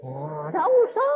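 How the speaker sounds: shouted no need. Acted. Shouted reply.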